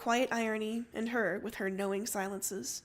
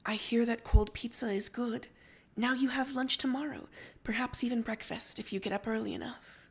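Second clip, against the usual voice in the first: soft voice. Acted. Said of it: "Rose says in a soft voice".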